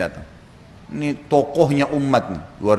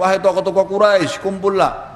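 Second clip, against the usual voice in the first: higher, louder call to gather; summoning call; 5 semitones higher, 3 dB louder than usual. Acted. Abu Bakar calling the Quraisy chiefs to gather.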